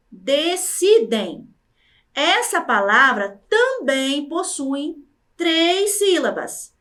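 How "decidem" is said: "decidem" carefully spaced out; careful word presentation. Shown as a demonstration. Teacher introducing the next word, carefully spaced. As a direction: present "decidem" with each syllable clear.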